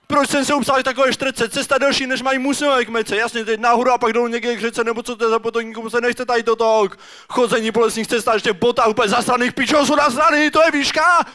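high exasperated tirade building to a yell; hammed-up complaint that peaks at the end; hiker's rant.

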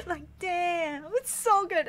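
high, laughing and teary; laugh-cry with joy; laughing through tears. Real, not acted. Crying over favorite song.

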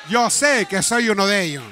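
proclaimed confession. Acted. Repeated, now proclaimed loud.

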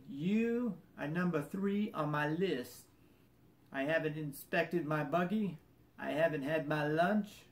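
put-on slow, lightly drawn-out Southern accent. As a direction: imitate a Southern mechanic, taking his time. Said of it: "I'll do my best Southern accent".

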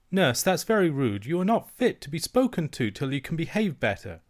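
put-on young princess primly offended; child princess. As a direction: scold like a small royal. Princess scolds nurse.

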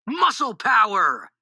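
slow, high rallying cry; storybook shout. A narrator's reading. Boys cheer at cranking the handle, shouting together. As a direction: shout it out, stretching both words. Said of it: "we shouted".

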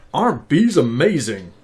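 slow, lightly voiced bear. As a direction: read it as the bear, slowly. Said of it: "I could do a bit of bear reading".

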